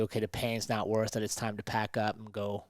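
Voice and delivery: tempting inner voice. Retold or imitated. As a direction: coax it softly, a hint of the voice that wants you to quit. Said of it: "the bitch voice that tells you".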